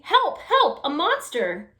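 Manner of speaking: very high, loud cries for help that drop at the end; panicked shouting. Acted. Baby calling her sister about the monster, panicked shouts. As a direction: scream for help, then the word monster. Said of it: "shouted Baby".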